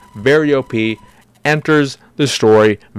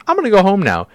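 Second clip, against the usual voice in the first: much higher, sing-song mock repeat; mocking Arya; 12 semitones higher, 3 dB louder, faster than usual. Arya quitting her vendetta, high mock voice. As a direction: parody her giving up, pitched way up. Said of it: "she's just like".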